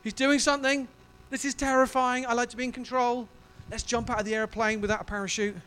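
"Whoa" bursting out high and loud, then settling; half-laughing, swept up and scared; overwhelmed exclamation. Retold or imitated. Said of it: "You're like".

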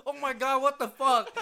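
high, loud shocked cry; mock shocked yell. Retelling a store worker's loud cry at the smell. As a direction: act out a customer reeling from the smell. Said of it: "He goes".

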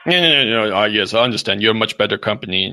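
put-on haggling character voice; fussy comic customer; prank-call father. Father telling phone seller he understands about crickets, fussy.

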